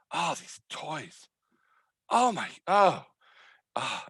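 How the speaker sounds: a tired mother shaking her head at toys; fond exasperated mom. Acted. Mother sighing at the toy mess.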